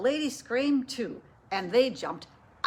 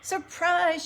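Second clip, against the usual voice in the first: high, loud surprise yell; excited shout; 8 semitones higher, 6 dB louder than usual. A narrator's reading. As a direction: burst out with it at the party. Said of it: "shouted Amelia Bedelia".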